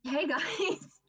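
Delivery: high-pitched put-on character greeting; Finnegan. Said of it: "Finnegan looks at you guys, and he goes".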